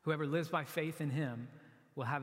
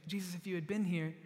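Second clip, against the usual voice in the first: weeping Mary; 4 semitones higher than usual. Retold or imitated. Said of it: "She's weeping".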